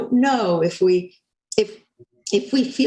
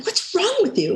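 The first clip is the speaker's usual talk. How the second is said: mock exasperation; 11 semitones higher than usual. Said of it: "I'm like".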